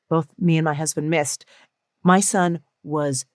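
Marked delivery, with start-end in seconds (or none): none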